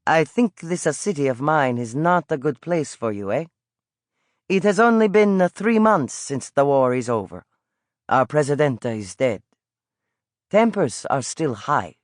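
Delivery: put-on old street vendor with an Italian lilt, calling out. Old vendor coaxing the boy toward his pastry cart, Italian accent. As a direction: coax the boy over like a friendly Italian peddler.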